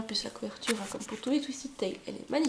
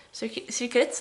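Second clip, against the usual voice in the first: English accent. Shown as a demonstration. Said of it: "désolée pour mon accent anglais".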